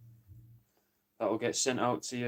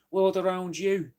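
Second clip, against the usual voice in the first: higher, louder, slowed-down put-on voice; mock quote of a friend; 6 semitones higher, 3 dB louder than usual. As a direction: call it out slowly, raised in pitch, not his real accent. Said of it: "he doesn't speak like this".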